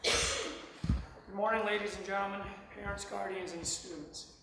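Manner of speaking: hoarse from a week of yelling; rough, strained raspy throat. Real, not acted. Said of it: "Please excuse my raspy voice".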